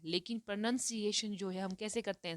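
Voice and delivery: ordinary talk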